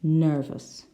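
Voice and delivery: "nervous" with an ER vowel, not AIR; different vowel. Shown as a demonstration. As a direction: say "nervous" clearly with ER in the first syllable. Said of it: "Can you hear?".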